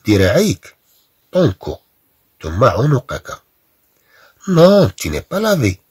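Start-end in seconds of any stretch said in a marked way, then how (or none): 4.5-5.8 high, slow scolding reprimand; mock scolding. Shown as a demonstration. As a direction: scold the child like a stern parent. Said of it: "reads scolding line to pupils". (توبيخ تمثيلي)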